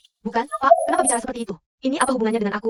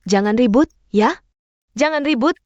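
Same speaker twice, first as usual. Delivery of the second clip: louder, firm call to stop the fighting; loud plea; 4 dB louder than usual. Acted. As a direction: cut through the shouting. Stopping a family quarrel.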